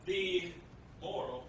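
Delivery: one word at a time, halting; staccato. Real, not acted. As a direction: drop each word separately, with pauses. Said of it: "one word at a time".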